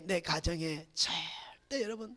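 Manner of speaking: breathy whispered warning. Real, not acted. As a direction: drop to a whisper for weight. Urgent hushed exhortation.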